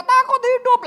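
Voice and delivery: high, loud outburst of fear; retold cry. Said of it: "Dia teriak".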